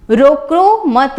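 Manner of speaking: रोको मत drawn out slowly as one phrase; pause after मत. Shown as a demonstration. Teacher explaining there is no stopping, pause after मत. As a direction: stretch रोको मत together, then stop. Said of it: "रोको मत के बाद जो विराम चिन्ह का प्रयोग".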